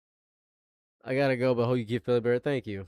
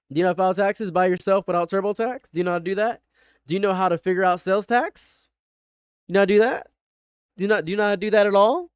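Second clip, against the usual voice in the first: mocking interrogation; 3 semitones higher, 5 dB louder, much faster than usual. Real, not acted. Grilling the fan about taxes.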